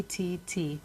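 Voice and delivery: the last word fades into a whisper. Pretend. Joking to viewers about endless tea, trailing to a whisper. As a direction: breathe out the final word almost silently. Mocking how much tea people drink.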